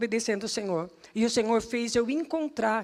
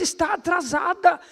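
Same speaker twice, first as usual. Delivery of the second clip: louder, higher imitated scolding; mock reproach; 6 semitones higher, 5 dB louder than usual. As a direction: call out the reproach as the amazed man. Cobrança encenada do homem. (bronca imitada, mais alta e aguda)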